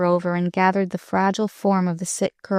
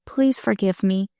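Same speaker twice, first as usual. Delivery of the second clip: slow, distinct. Acted. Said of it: "said Marilyn slowly, distinctly".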